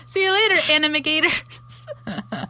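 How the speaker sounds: slow, drawn-out goofy farewell; playful sign-off. Acted. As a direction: savour the silly pun.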